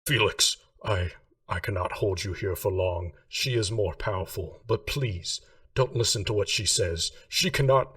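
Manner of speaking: a touch of urgency, pushing to finish before being cut off; exasperated and urgent. Acted. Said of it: "sounding noticeably a little bit more exasperated and urgent".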